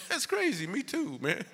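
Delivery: high-pitched, amazed squeal of recognition; mock amazement. Comic discovering the Bible shares his hometown, mock amazed. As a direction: jump up high in pretend astonishment.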